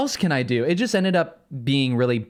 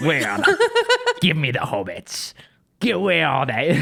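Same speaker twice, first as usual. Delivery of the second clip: laughing monster voice. Retold or imitated. Friend retells her bathroom impression, laughing through a squeaky creature voice. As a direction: cackle for the hobbits like a greedy creature. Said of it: "the voices you just made".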